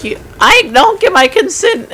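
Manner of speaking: high, loud hammed-up wail; mock screaming protest. Driver protesting his arrest to the cop, mock screaming. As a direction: imitate an outraged man shrieking.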